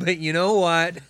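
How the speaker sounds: laughing through the words. Real, not acted. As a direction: laugh as you say it. Laughing while talking.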